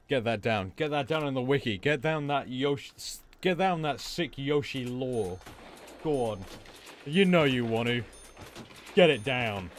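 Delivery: loud, emphatic mock command; playful loud urging. Streamer urging chat to log lore for the wiki, playfully loud.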